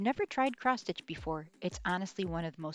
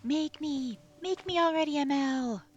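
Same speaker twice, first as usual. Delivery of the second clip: a creepy thing begging to be made, getting more desperate; haunting project voice; 8 semitones higher, 4 dB louder than usual. Acted. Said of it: "whisper to you ... begging to be made".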